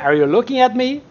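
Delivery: lightly acted confrontational question; movie quote challenge. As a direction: quote the film line with a rising end. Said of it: "Taxi Driver".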